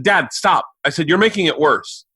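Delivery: high-pitched retold protest; exasperated plea. Scared son cutting off ranting dad, pleading.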